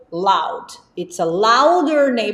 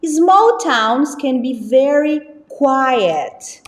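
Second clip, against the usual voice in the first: slow model reading; 2 semitones higher, much slower than usual. Shown as a demonstration. Teacher reading example sentence to class, slow and clear. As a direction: read it slowly so students can follow. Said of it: "Big cities are usually".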